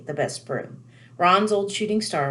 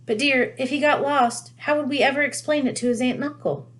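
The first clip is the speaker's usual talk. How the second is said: worried mum voice; 7 semitones higher than usual. A narrator's reading. Worried Mrs Weasley.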